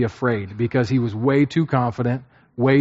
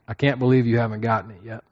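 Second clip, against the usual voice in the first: irritated man; 2 semitones lower, faster than usual. Retold or imitated. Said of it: "an irritated man saying".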